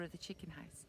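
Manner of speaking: hushed, secretive whisper. A narrator's reading. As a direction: whisper as if peeking in. Peeking into the chicken house.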